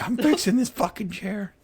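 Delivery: high, slow, mock-furious insistence; hammed-up rage over a broken chair; mock angry. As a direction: play your past self losing it. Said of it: "I got so pissed off".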